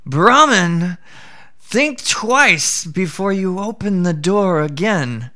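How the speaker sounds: a sly jackal giving a lesson; jackal advising. Acted.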